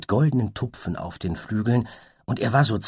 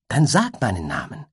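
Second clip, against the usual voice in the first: pleading; 4 semitones higher, 3 dB louder than usual. Acted. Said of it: "bat das Einhorn".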